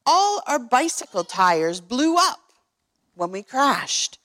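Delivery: lightly voiced small town mayor; a hint of a worried tiny mayor telling his troubles. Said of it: "came the voice of the mayor".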